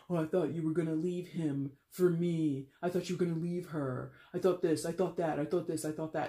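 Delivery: mildly whiny sour-grapes complaint. Retold or imitated. Reader voicing a rejected lover's gripe, mildly whiny. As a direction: imitate a jilted partner griping, lightly whiny. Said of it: "you know, whiny about it".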